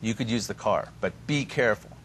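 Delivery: hesitant. Retold or imitated.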